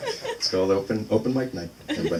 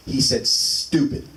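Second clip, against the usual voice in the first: put-on kid's answer; much slower than usual. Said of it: "So I go".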